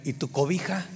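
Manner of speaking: a hint of a drowsy, soft-spoken camper; sleepy camper. Camper waking up asks the preacher about his blanket, drowsy and soft. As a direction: mumble it like someone half awake. Camper woken in crowded tent.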